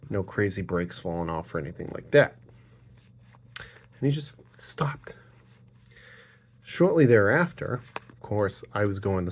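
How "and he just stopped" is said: slow, whispered, higher; whispered disbelief. Retold or imitated. Telling about the Rhode Island driver who stopped dead, slow whisper. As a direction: hush it out in disbelief.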